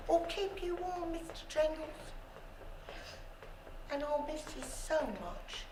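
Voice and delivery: soft, tender goodbye to the doll; quiet farewell, almost crying; tender, holding back tears. Acted. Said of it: "she tried to hold back tears".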